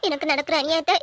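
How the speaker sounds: sniffling, put-on tearful lament; fake crying. Granddaughter putting on tears for her man, fake crying. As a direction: act tearful and wronged, with sobbing breaths. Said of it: "எதுக்கு திடீர்னு அழுற".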